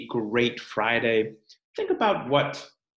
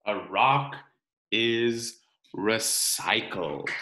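put-on reading to children. Teacher reading the rock book to her class, storytime narration. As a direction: read it aloud for the class.

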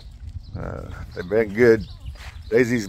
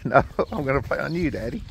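lightly voiced puppy, a little higher; puppy's voice; 4 semitones higher, 3 dB quieter than usual. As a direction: playfully answer as the puppy, pitched up. Voices the puppy answering him.

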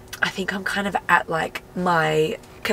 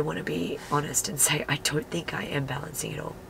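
whispering; 2 semitones lower, 6 dB quieter than usual. Real, not acted. Confessing quietly in the car.

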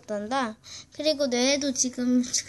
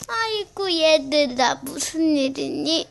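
grandma voice; 5 dB louder, slower than usual. Pretend. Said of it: "내가 아직 할머니니까".

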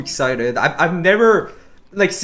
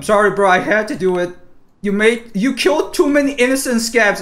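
gleeful taunt; 7 semitones higher, 5 dB louder than usual. Real, not acted. Taunting the killed player.

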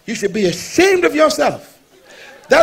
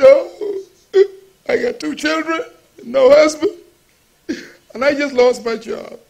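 retelling her words with a catch of crying in the voice; tearful woman. Retold or imitated. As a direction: voice the weeping woman, half crying. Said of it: "And she began to weep".

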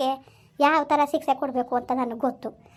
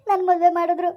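crying; 3 semitones higher, 3 dB louder than usual. Acted. Daughter-in-law sobbing, forced marriage.

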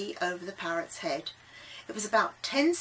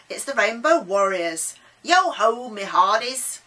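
put-on loud, hearty old sea salt; Davy; 8 dB louder than usual. A narrator's reading. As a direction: boom it out like a jolly sailor. Davy hails the warriors.

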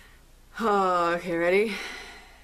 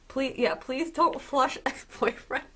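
higher, laughing through the words; giggly, raised-pitch repeat; amused plea; 5 semitones higher than usual. Real, not acted. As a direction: break into a laugh midway. Amused by an odd line read out.

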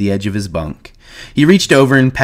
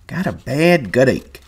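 put-on old man voice; 5 semitones higher, slower than usual.

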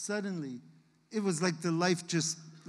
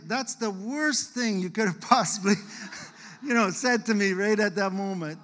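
louder, pained cry at the memory; anguished outburst; 6 dB louder than usual. Retold or imitated. Father recalls reacting to his daughter, louder anguish. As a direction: let it burst out, stricken. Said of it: "And I was like".

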